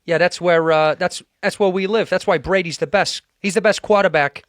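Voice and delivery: put-on a light Boston accent, casual bro talk. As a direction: speak loosely like a guy from Boston. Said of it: "Do Boston for me".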